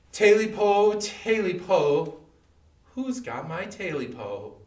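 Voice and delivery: loud calling cry that fades as it stretches out; a creature crying out into the dark, then trailing off; eerie cry. A narrator's reading. Creature cries again outside the cabin, loud then fading. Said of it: "there came again the cry".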